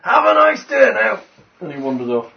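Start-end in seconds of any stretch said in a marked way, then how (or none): 0.0-1.2 high, loud cheery farewell; cheery innkeeper. Acted. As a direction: call it out bright and chirpy. Innkeeper cheerily calls goodbye.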